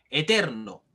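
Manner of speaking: "eterno" with a firm push on TER; teacher reading out "eterno", TER stressed; stress on middle syllable. Shown as a demonstration. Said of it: "Nosotros decimos eterno".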